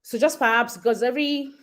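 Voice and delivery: panting after running upstairs; breathless, catching breath. Real, not acted. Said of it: "Sorry, I'm panting because I ran upstairs".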